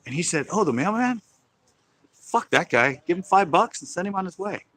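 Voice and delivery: high, sweet mock-innocent wife's voice; sweet obedient wife. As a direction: explain it all sweetly, as if it's perfectly normal. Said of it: "She goes".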